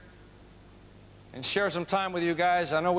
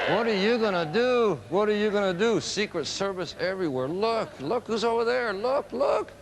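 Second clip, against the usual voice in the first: imitating an anxious wife, urgent and climbing in pitch; mock panic; 3 semitones higher than usual. Wife pressing husband as Secret Service surrounds them, mock panicky.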